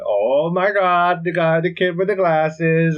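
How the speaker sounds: high, loud, drawn-out nerd voice; nerdy kid impression. Podcaster imitating the kid with the glasses, mock nerd voice. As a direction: put on a slow, high-pitched geeky kid. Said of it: "and he talks like this".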